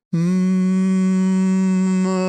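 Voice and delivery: long hum opening to ah; yawn-space hum into ah. Shown as a demonstration. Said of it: "yawn with our mouth closed".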